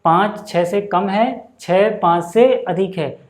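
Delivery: slow, measured recap; reading demonstration. Shown as a demonstration. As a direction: model the reading at a slow pace. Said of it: "याद रहे इनको पढ़ने का तरीका".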